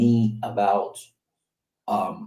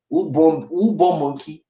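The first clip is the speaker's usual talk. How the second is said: mock scolding parent; 5 semitones higher than usual. Parents scolding child in Pidgin.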